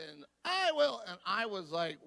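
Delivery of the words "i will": I will sung much higher and louder; emphatic I will. Retold or imitated. Mother throws her hand and belts I will at the deathbed. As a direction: belt out I will with charismatic emphasis. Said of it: "She's emphasizing".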